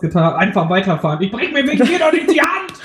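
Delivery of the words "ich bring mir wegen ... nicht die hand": hohe, schnippische Spottstimme; spöttisch abwimmelnd; gleichgültiger Skifahrer. Pretend. Mock callous skier rant. (gespielt rücksichtsloser Skifahrer)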